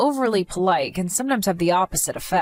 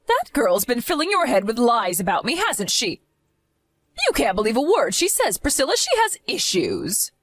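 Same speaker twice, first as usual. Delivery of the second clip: higher, wheedling blame; defensive mother-in-law; 4 semitones higher than usual. Acted. Mother-in-law turning her daughter against Amelia, wheedling and high. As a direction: sweet-talk your daughter while running the girl down.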